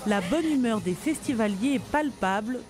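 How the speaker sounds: ordinary talk, nothing marked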